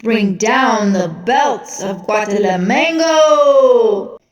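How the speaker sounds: very slow, drawn-out arena call; milk every syllable for the crowd; announcer calls for the belts, slow and grand; ring announcer. Acted. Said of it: "the announcer said".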